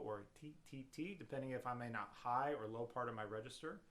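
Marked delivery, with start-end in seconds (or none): 0.4-1.1 "T" as short, detached syllables with a light tongue; light staccato articulation. Shown as a demonstration. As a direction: tap each "T" lightly and separately. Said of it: "a light T or toe".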